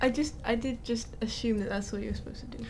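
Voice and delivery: soft unvoiced whisper. Real, not acted. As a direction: breathe it as a whisper. Quiet aside between players.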